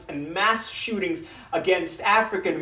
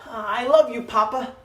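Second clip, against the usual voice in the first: higher, lightly voiced son; a hint of a higher young voice; son's voice; 4 semitones higher, 3 dB louder than usual. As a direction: voice a loving son addressing his papa. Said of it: "Daniel would always say to me".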